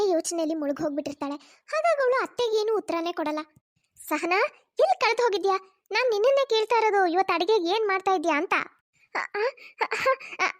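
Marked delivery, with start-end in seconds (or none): 4.1-8.5 lightly voiced elder woman, mildly annoyed; impatient mother-in-law. 9.1-10.6 startled stammering with a nervous laugh; flustered stammer. Acted. Startled daughter-in-law stammers.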